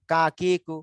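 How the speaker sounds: কা, কি, কু with long vowels and a Bengali k. Shown as a demonstration. Teacher modelling kaf for students, কা, কি, কু like Bengali ক. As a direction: drill কা, কি, কু syllable by syllable. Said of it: "একদম এই কর মতো".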